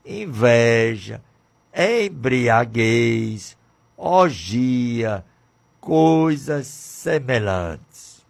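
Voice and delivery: slow, weighty reading of each vice; scripture reading. Acted. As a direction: read the list of sins like a sermon, pausing on each word. Reads Galatians list in a preaching voice. (leitura bíblica lenta e solene)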